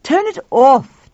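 loud, high, drawn-out order; firm demand. A narrator's reading. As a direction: demand it, stretching the words. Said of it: "Tuffy demanded".

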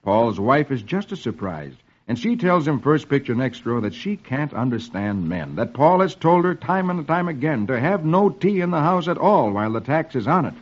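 measured comic-strip reading; old-time radio storyteller; story narration. A narrator's reading. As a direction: read the story out to a child.

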